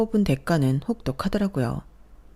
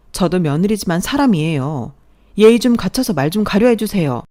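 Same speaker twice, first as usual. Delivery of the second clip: firm, raised voice pushing back at her mother-in-law; daughter-in-law finally talks back to her mother-in-law, raised and indignant; heated protest; 2 semitones higher, 5 dB louder than usual. Acted. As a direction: stand your ground, loud and indignant. Wife confronts mother-in-law in quarrel.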